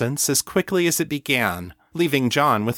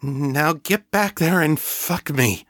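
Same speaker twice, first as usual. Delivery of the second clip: panting; 6 semitones higher than usual. Acted. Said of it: "panting as she began thrusting".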